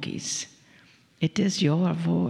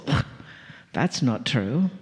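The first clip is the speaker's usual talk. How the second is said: doubting inner voice; 5 semitones lower than usual. Retold or imitated. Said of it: "a little voice inside of your head that says".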